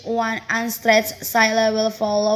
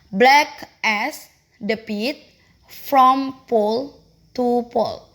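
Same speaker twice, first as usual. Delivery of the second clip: scanning the line with heavy beats; stretched stress demo. Shown as a demonstration. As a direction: draw out each beat of the line. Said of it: "perhaps stretching the intensity".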